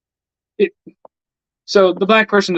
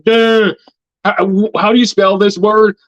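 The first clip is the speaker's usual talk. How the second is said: higher, louder dopey "duh" voice; mocking dumb voice; 5 semitones higher, 3 dB louder than usual. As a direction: play the class dunce, dragging and dim. Mocking a dim classmate.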